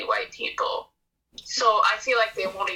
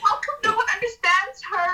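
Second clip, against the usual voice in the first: sarcastic; 11 semitones higher than usual. Acted. Sarcastic mock pity.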